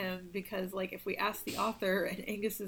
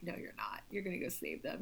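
voice in his head; 9 dB quieter than usual. Retold or imitated. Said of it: "the voice in his head is like".

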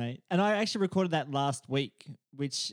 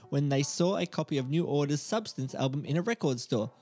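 reading a script cold, a bit halting; sight-reading a report aloud; first-time read-through. Real, not acted. Host reads a paid Fiverr intro to his co-host, sight-reading. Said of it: "very endearing hearing you read for the first time".

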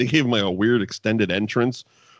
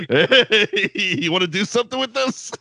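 sleazy come-on; 10 semitones higher than usual. Retold or imitated. Mocking stripper-like Shawn.

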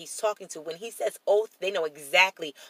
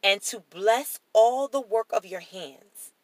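higher, declarative Bible reading; raised, measured reading voice; scripture reading; 4 semitones higher than usual. Acted. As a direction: proclaim the blessing from the page. Reads scripture aloud.

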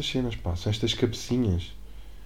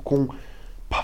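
ordinary delivery

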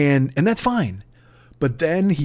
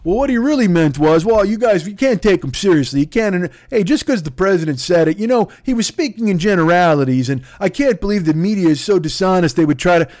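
mocking supporters; 3 semitones higher, 4 dB louder than usual. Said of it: "have to come out and go".

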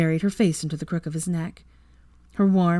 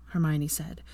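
ordinary delivery, nothing marked

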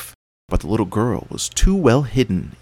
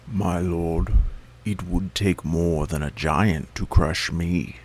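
calm tortoise; 2 semitones lower, slower than usual. A narrator's reading. Tortoise volunteers calmly.

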